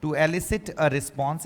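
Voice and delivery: very slow, word-by-word English; drawn-out teaching example; model phrase. Shown as a demonstration. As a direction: say it slowly for learners to copy. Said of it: "इसको यूं के यूं बोल जाओ".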